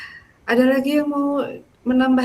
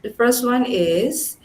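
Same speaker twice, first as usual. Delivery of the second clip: formal closing; 2 semitones higher, much slower than usual. Real, not acted.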